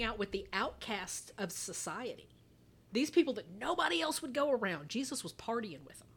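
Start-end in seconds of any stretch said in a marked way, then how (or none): 4.9-6.1 conspiratorial whisper. Real, not acted. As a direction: drop to a whisper for the punchline. Conspiratorial punchline aside.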